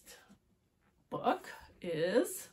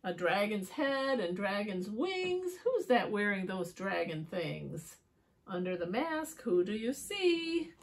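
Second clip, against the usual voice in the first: put-on riddle for children; 3 dB louder than usual. A narrator's reading. Asking children who wears dragon things, playful storytelling.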